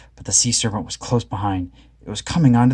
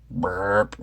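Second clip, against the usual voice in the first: burp; 2 semitones lower, 5 dB quieter than usual. A narrator's reading. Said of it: "they burped".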